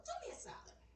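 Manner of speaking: breathy stage whisper. Real, not acted. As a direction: lean in and whisper. Playful aside to viewers.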